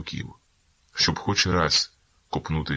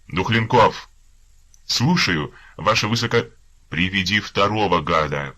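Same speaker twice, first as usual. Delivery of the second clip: loud, higher barked orders; shouted orders; 5 semitones higher, 7 dB louder than usual. Acted. Officer yelling for a soldier to bring the next prisoner, loud. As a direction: call the soldier in sharply.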